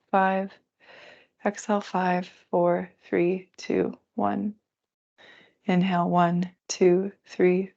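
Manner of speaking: calm, even counting of breaths; guided breath count. Acted. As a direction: count the breath slowly and steadily. Leads a counted breathing exercise.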